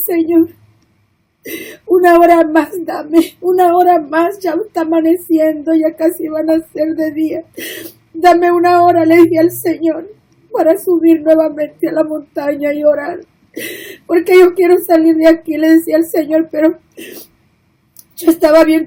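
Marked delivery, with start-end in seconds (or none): 0.1-9.0 tearful pleading. Retold or imitated. Begging the Lord for time. 10.5-15.6 tearful pleading. Retold or imitated. Begging the Lord for time.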